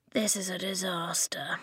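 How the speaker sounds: despairing whisper. A narrator's reading. Inch despairing with head in hands, whispered. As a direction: groan it into your hands.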